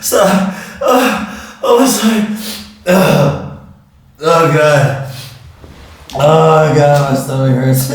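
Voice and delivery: breathless, pained from laughing; groaning through a laughing fit; after laughing hard. Real, not acted.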